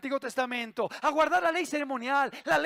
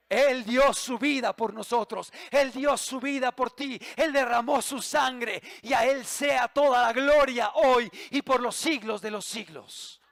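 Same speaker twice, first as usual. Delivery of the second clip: fervent proclamation. Real, not acted. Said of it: "preacher proclaims glory".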